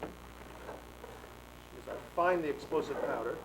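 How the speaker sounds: very slow, stretched words; slow drawn-out aside. Acted. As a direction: drag it out while searching. Slow aside while searching.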